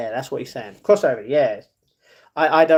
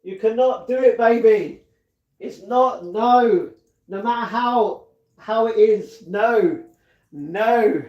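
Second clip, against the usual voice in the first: higher, louder mock scolding voice; hammed-up mock nagging, higher and louder; imitating him; 6 semitones higher, 3 dB louder, slower than usual. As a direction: play the fussing friend telling him no. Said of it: "he's like".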